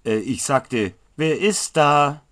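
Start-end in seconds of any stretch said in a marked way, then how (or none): 1.2-2.2 loud, slow, irritated repeat; angry demand. Acted. Apprentice angrily repeats his question into the dark. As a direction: demand it again, annoyed now. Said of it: "Jetzt war es schon eher Wut".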